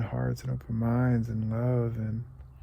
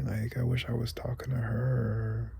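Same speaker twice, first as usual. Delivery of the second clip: near tears. Real, not acted. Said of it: "because it's making me cry".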